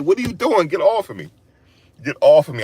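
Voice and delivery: high-pitched urgent protest; retold protest. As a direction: act out struggling to get someone off. Retells struggling to break free.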